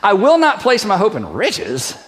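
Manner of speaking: slow, scornful disbelief at riches; mock incredulous tone on riches; scoffing attitude on riches. Shown as a demonstration. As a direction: say it like who would do that. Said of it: "we're gonna have a little attitude like".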